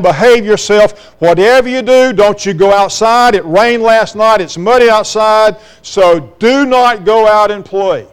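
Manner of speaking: firm motherly instructions, lightly acted; lightly voiced stern mother. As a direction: lay down the rules like a mother, point by point. Mother warns son in story.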